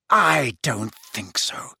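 slow, deliberate threat; cold menace. A narrator's reading. Snape answers his own question to Harry, menacing. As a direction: drop into slow contempt.

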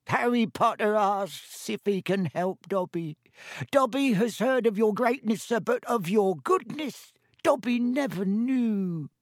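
high, slow, awestruck elf; Dobby, grateful elf. A narrator's reading. Elf marvels at Harry's goodness, grateful. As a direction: squeak it out, overcome with admiration.

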